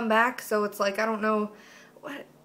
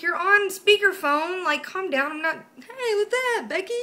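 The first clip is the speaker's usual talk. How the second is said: much higher, sing-song fake casual; mock bright innocence; 9 semitones higher, 5 dB louder than usual. Hiding the phone call from dad, mock cheerful. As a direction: sound breezy and innocent. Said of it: "I'm like".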